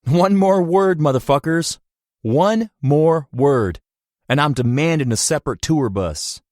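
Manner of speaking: loud, high furious warning; angry threat. Acted. Cash threatens bandmates through door.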